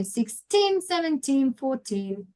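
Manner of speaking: put-on "sixteen", "seventeen", "fourteen", each leaning on the final teen; stress on TEEN. Shown as a demonstration. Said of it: "that's the stress".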